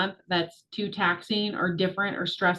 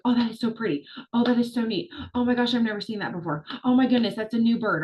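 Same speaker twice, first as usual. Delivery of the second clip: mildly gushing over sights; a touch of awe; delighted wonder; 3 semitones higher than usual. Retold or imitated. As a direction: re-enact a tourist marvelling at each new thing. Acting delighted vacation sightseer.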